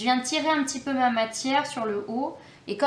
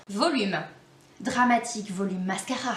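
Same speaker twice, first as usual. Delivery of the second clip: trying an English accent; 3 semitones lower than usual. Shown as a demonstration. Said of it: "C'est mon accent anglais qui veut pas sortir".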